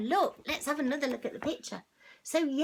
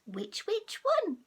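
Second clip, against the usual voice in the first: higher, slower sing-song "Which, which one?"; funny cat voice; 8 semitones higher than usual. Shown as a demonstration. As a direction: stretch it out like a silly cat. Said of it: "That sounds so funny".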